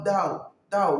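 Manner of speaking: "d'A" as dao with no puff of air; simple D. Shown as a demonstration. Coach demonstrating Chinese D, simple "d'A". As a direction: keep the D of "d'A" plain and unaspirated. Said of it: "le D qui est simple".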